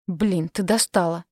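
slow, exasperated angry sigh; angry exhale. Acted. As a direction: breathe it out in irritation. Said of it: "злобно выдохнул Дэн".

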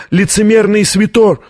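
high-pitched, outraged cry; angry narrated shout. A narrator's reading. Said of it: "закричал Рушер".

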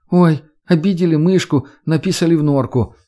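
mock pity for a sulking child. Redhead teasing sulking Max, mocking singsong. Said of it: "продолжая издеваться".

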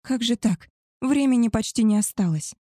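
mildly panicked lament. Acted. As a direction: fret aloud about running out of time. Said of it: "причитая".

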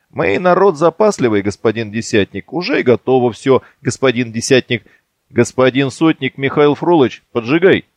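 put-on ape the boys' eager reports; mock-respectful mimicry. Petrukha mimicking the lads to Yegor, mocking. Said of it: "Передразнивает отроков".

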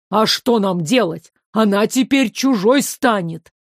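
ordinary delivery

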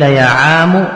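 "يا عام" with the final م voiced as mu, يا عامُ; "يا عام" pronounced yā ʿāmu, final mim with damma. Shown as a demonstration. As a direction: say "يا عام" ending on a clear damma, mu. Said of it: "بضم الميم".

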